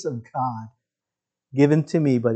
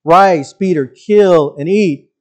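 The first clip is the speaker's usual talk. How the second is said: voice of God; 6 dB louder, slower than usual. Acted. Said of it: "And a voice came to him".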